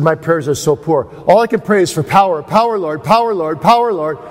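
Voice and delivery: lightly voiced earnest preacher begging for power; Whitfield's plea. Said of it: "He says".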